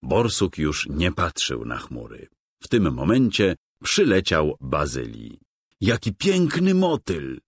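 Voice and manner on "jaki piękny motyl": high, bright burst of delight. A narrator's reading. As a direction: gasp in wonder at the butterfly. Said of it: "zachwycił się borsuk".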